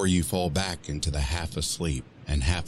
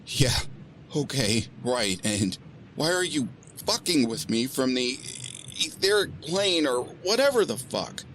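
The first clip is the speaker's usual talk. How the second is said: sarcastic disbelief; 10 semitones higher than usual. Acted.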